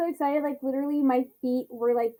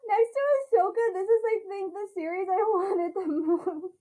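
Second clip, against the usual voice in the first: tearful joy; 6 semitones higher than usual. Real, not acted. Still tearful after watching trailer.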